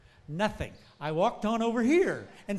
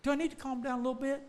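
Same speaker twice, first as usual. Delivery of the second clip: mock self-doubt; 6 semitones higher, 4 dB quieter, faster than usual. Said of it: "And I'm thinking".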